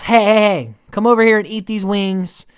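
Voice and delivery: high, loud summons to friends; imitated excited holler; mock calling out. Acted calling the girls over.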